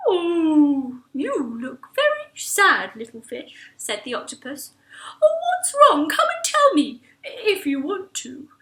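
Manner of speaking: gentle, slow, caring voice; kind octopus. Acted. The octopus comforts sad Mac, gentle and slow. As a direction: comfort the sad little fish.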